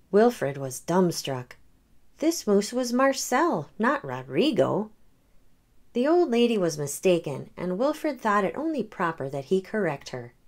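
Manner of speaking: gentle read-aloud storytelling; story narration. A narrator's reading. The speaker reading a picture book to children, gentle. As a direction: read it like bedtime for kids.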